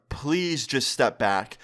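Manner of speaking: slow, deliberate request; measured plea. Retold or imitated. Asking the screaming mom to step back, measured. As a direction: spell out a plea slowly.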